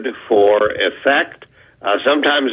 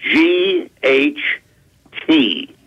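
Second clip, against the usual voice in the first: slow spelling out; 3 semitones higher, much slower than usual. Shown as a demonstration. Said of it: "How do you pronounce that word".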